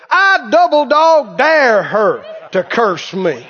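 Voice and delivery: slow, bold, defiant dare. Retold or imitated. Preacher answering the curse threat, slow defiant dare. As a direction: plant your feet and dare her. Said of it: "reared back and said".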